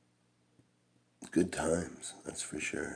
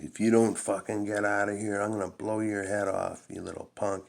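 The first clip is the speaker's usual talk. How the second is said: higher menacing stepfather voice; stepfather's threat; 7 semitones higher than usual. Retold or imitated. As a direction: threaten the kid with a shotgun. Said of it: "he's like".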